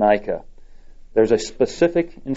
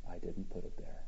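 hushed, much softer sorrowful confession; somber; 3 semitones lower, 19 dB quieter than usual. Acted. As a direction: drop to a grave near-whisper. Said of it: "The Lord looked somber".

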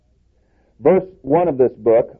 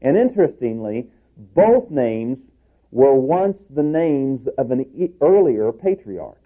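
normal talking voice

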